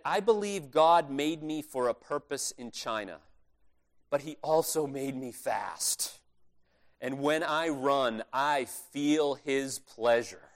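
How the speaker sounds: put-on slow, sincere conviction, no accent; earnest quote. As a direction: let each word land slowly, from the heart. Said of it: "here, here goes".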